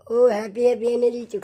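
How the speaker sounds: high, loud delighted cheer; excited praise. Real, not acted. Owner praising pet for bringing Happy, excited cheer.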